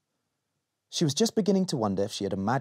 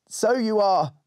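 put-on little girl voice; 9 semitones higher, 4 dB louder, slower than usual. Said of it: "said Molly".

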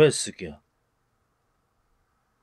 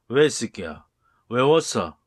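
louder, hostile challenge; angry yell; 6 dB louder than usual. Acted. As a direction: snap at someone for smiling. Angry man confronting someone. (시비 거는 화난 고함)

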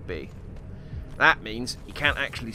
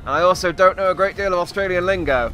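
lightly put-on, higher Australian accent; bad Australian accent; 4 semitones higher than usual. Player stuck with his chosen persona, bad Australian accent. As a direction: have a go at an Australian accent, not very well. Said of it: "I've opted to go for an Australian accent, and I can't do an Australian accent very well".

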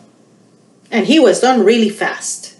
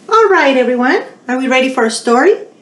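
excited call; 4 semitones higher, 4 dB louder, faster than usual. Real, not acted. Calls kids to story time.

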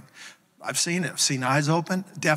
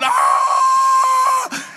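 very high, loud held shriek; answering scream; 8 dB louder than usual. Retold or imitated. Pastor screaming along with the healed man, high shriek. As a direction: scream along on one long note. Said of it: "And I'm going".

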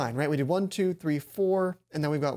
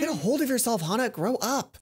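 a firm talking-to to herself; self-scolding; 4 semitones higher than usual. Acted. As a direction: pull yourself together, stern.

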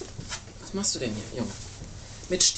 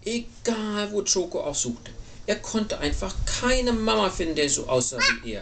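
put-on story narration to a child. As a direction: tell it with storybook sympathy. Reads picture book to child.

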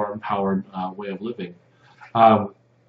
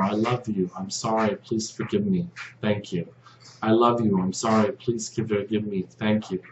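softer, murmured like a private prayer; 5 dB quieter than usual. Shown as a demonstration. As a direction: say it quietly to yourself as a prayer. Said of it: "Say it in your prayer".

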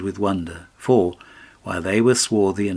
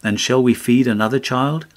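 angry cry; 4 semitones higher, 4 dB louder than usual. Acted. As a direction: let the wife cry out at him in anger. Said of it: "and spoke angrily, and cried".

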